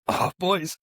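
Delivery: high mock-tearful exclamation; mock-emotional outburst. Host to his guests after hearing their story, mock-emotional. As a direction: go high, playfully overcome by it. Jokes at being moved to tears.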